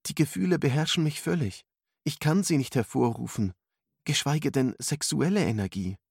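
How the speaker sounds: put-on high-pitched girlish character voice; troubled girl. A narrator's reading. Alice admits to mentor she finds it hard, high voice.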